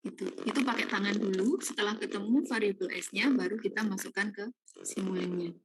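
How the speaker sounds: choppy robot voice glitch; broken up, robotic audio feed; robotic audio distortion. Real, not acted. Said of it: "kayak suara robot gitu".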